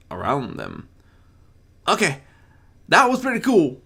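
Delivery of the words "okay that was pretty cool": soft mutter. Acted. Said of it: "Apple Bloom muttered softly".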